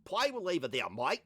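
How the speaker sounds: exaggerated Australian imitation; mock Australian accent. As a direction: stretch the vowels like an Aussie. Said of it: "Is Australia, they're like".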